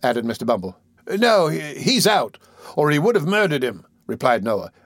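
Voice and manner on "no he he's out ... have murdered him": put-on eager tattling boy. Noah voiced.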